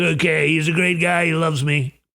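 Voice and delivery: mocking put-on voice of a pleased narcissist; hammed-up impression, easily won over and self-satisfied; Trump. Trump happily agreeing to Netanyahu's request, mock impression. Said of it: "Donald Trump's like".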